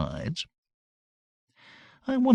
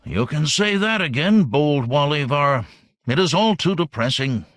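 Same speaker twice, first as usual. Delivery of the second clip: gloomy alien; 3 semitones higher, 4 dB louder than usual. Acted. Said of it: "He sucked it back in unhappily".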